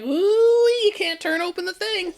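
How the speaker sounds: a hint of a hapless housewife; goofy commercial before person. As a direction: whine about the stuck jar. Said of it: "it'd be black and white and it'd be so goofy".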